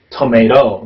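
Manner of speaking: TOMATO with a true first T and tapped second, "tuh-MAY-ro"; American "tomato", last T flapped. Shown as a demonstration. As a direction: say "tomato" with the final T as a quick tap. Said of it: "이렇게 발음되고요".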